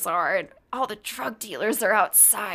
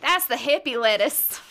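put-on country accent. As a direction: say it like a Texan. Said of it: "That was flawless, Catherine".

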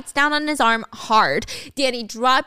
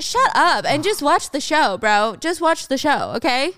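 mildly heated, higher-pitched command; angry order; 4 semitones higher, 3 dB louder than usual. Retold or imitated. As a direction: act out an irritated captor giving orders. Danny orders June to watch.

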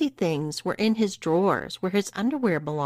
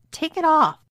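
high, loud demand; protesting; 10 semitones higher, 5 dB louder than usual. Acted. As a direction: protest sharply at a raised pitch. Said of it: "protested Brittany".

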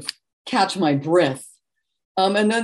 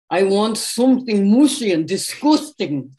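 a singer; 2 semitones higher, 4 dB louder than usual. Retold or imitated. Retelling the singer at the dessert table, Liverpool accent. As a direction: put on a Liverpool accent for the quote. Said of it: "said in his Liverpool accent".

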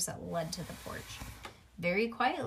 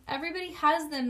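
loud, fast, higher outburst; shouted; 8 semitones higher, 6 dB louder, faster than usual. A narrator's reading. Nancy shouting at her mother about the ears, fast and loud. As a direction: blurt it out in a high shout. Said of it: "Nancy shouted".

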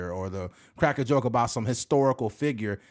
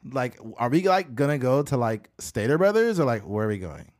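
put-on valley girl accent. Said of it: "that kind of Valley girl accent".

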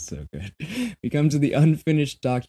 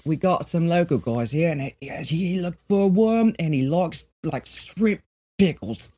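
higher mock Kiwi voice, slowing on "shrimp pickles"; mock New Zealand accent; 7 semitones higher, 3 dB louder than usual. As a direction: play a laid-back Kiwi local news writer. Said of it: "a very New Zealand article where it's just like".

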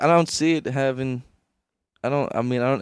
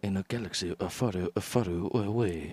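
put-on lightly done Japanese accent, a bit softer; mock Japanese accent; 2 semitones lower, 5 dB quieter than usual. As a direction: tease with the movie accent. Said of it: "that Japanese accent you do".

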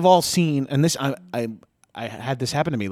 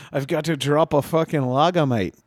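mock British rugby-lad accent; hammed-up British lad; British rugby slang; 3 semitones higher than usual. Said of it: "in that rugby language".

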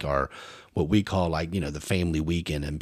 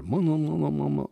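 higher muffled voice calling mama; 7 semitones higher than usual. Retold or imitated. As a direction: call mama like a muffled voice through a door. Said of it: "I'm listening and I hear".

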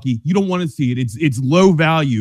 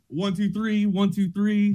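imitating dance count; 2 semitones higher, 7 dB quieter, slower than usual. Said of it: "like she does".

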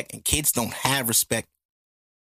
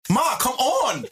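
retold begging; 10 semitones higher, much slower than usual. Begging mom, mom refusing.

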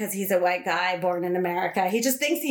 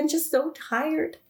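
put-on higher, slow whine of a worn-out kid; whiny tired child; 7 semitones higher than usual. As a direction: stretch it out like an exhausted little girl. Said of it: "She was like".

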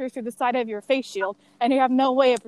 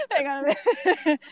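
winded, catching breath; pausing to get air back; 3 semitones higher, faster than usual. Real, not acted. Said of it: "really out of breath".

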